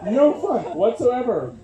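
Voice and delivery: comic mock whine about too-supportive parents; mock complaint. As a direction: whine it as a fake grievance.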